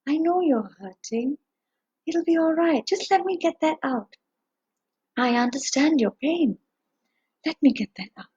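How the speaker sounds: soothing, softened voice; calm a hurt animal, gently; gentle reassurance. Acted. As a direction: speak gently, as if easing someone's pain. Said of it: "he spoke very gently".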